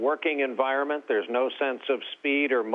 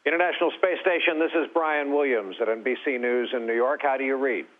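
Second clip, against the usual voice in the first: mission control call. Pretend. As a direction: play the capcom hailing the station. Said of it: "I've always wanted to say this".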